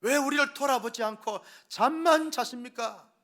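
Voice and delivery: high, loud cry of terrified disciples; panicked shout. A narrator's reading. Terrified disciples shouting at sleeping Jesus, loud and high. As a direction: yell at the sleeping teacher in panic. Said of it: "제자들이 소리를 지릅니다".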